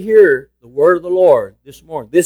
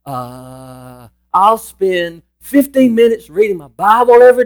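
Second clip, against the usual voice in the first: somebody thinking aloud. Acted. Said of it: "I can just hear somebody thinking".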